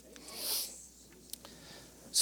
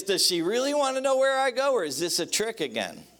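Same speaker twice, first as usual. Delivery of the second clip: husband's worried thought; 6 semitones higher than usual. Retold or imitated. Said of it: "What's going through your mind is".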